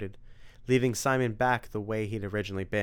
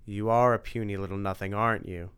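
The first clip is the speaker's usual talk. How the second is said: Dracula taunting. Acted. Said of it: "asked Dracula's voice".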